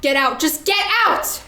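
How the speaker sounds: angry order. Acted. Pearl drives Rose from her home, building angry shout. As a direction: throw her out, rising to a yell.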